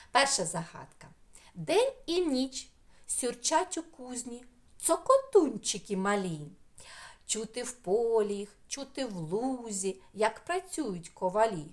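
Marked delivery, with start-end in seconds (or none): 1.5-11.7 reads the riddle in a lilting storyteller voice; riddle reading. Acted. Teacher reading a riddle to children, lilting.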